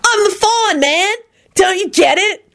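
high-pitched goofy enthusiasm; beaming. A narrator's reading. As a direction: plead happily to be understood. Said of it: "Kenny beamed".

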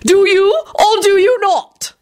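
high, insistent shouted demand; high shrieky challenge, drawn out at the end; Lady Fanshawe. A narrator's reading. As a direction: demand an answer, voice pitched right up. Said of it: "Lady Fanshawe shouted".

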